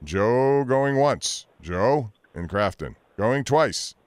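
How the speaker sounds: slow, drawn-out auction call; mock auctioneer. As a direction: count him down like an auctioneer. Host calls out a silent caller.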